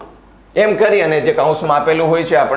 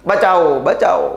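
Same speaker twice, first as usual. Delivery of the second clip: calling for help; 4 semitones higher than usual. Acted. Character crying for help.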